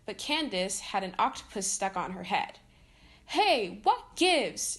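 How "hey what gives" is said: high, loud indignant shout. Acted. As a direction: yell in protest, much higher. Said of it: "she shouted".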